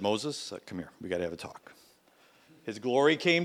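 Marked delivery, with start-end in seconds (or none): 0.0-1.7 low, quiet, grave call; stern summons. Retold or imitated. God calling Moses aside, low and quiet. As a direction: call him in for a serious talk.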